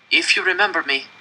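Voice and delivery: high, cracking plea. A narrator's reading. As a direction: let the voice break as he begs. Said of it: "my voice cracking".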